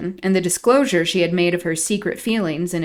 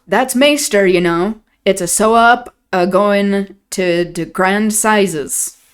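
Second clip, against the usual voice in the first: put-on broad old Yorkshire servant voice; Yorkshire dialect; 3 dB louder, slower than usual. Nellie voicing old Joseph in thick dialect. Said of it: "Nellie doing an impression of Joseph".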